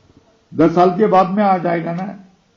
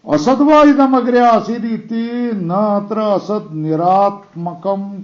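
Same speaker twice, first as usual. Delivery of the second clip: slow measured recitation, असद्वा stressed; scripture recitation; 2 semitones higher than usual. Shown as a demonstration. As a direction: intone the Upanishad line slowly. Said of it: "reciting the scripture line".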